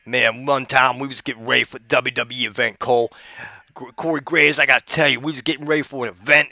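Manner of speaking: Booker T impression. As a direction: hype storyteller getting worked up. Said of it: "I imagine it would go like this".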